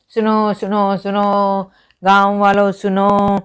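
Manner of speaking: lightly voiced village crier calling out; town crier. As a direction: call it out like a drummer's announcement. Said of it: "इस तरह से बोलते थे".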